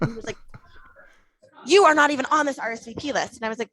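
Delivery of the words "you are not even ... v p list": emphatic, higher mock yell; retold yelling. Man refuses her entry over the guest list, mock yelling. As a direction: imitate him hammering out an objection. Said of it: "as he continued yelling".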